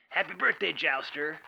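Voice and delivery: soft, understated imitation of a cheery dad; mock cheery. Dad on the phone to his son, mildly mock-cheery. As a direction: greet softly with put-on cheer. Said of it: "in, like, this cheery voice".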